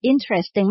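interesting as IN-tres-ting; three syllables. Shown as a demonstration. Teacher showing the right way, interesting in three syllables. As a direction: squeeze interesting into three syllables, stress the first. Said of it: "มันเหมือนมีสามพยางค์เท่านั้นเอง".

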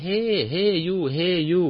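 high, drawn-out calling-out of a foreigner; imitated rude hailing. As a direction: call out rudely to get a stranger's attention. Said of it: "การทักที่ ที่ไม่สุภาพเลย".

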